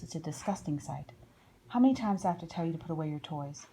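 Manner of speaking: fast, exasperated nagging parent; nagging grown-up. Acted. A parent scolding a child who never listens, fast exasperated nagging. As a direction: rattle off the scolding like a tired parent.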